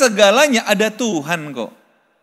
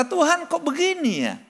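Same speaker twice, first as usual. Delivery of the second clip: anguished plea to God; 7 semitones higher, 3 dB louder than usual. Retold or imitated. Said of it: "kita berkata".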